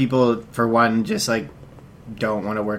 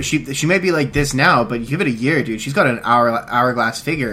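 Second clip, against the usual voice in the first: mock stockbroker pitch. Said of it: "just say".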